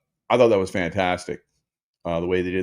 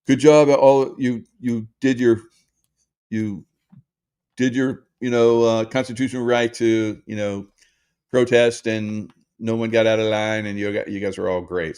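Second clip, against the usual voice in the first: mock cheerful police praise; 2 semitones higher than usual. Police praising San Diego protesters, mock cheerful. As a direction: play the police praising protesters with syrupy approval. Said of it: "And the police are like".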